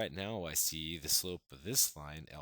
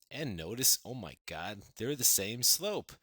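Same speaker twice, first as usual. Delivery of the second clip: excited discovery; 4 semitones higher, 5 dB louder than usual. Real, not acted. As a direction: marvel at the discovery for the class. Teacher discovers equal slopes.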